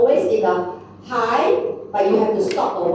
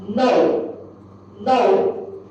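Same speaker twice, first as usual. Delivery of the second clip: fourth tone demo. Shown as a demonstration. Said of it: "very short and heavy".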